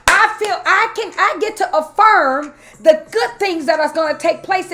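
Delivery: rhythmic declaring, rising in pitch toward the end; preaching. Real, not acted. Woman declaring good things over her life, preacherly. I feel like I'm preaching up in here.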